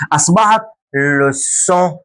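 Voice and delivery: لوسون said slowly with a clear s; slow correct demo. Shown as a demonstration. Teacher slowly giving the corrected لوسون. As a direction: stretch out لوسون, s in the middle. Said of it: "ينطق اس".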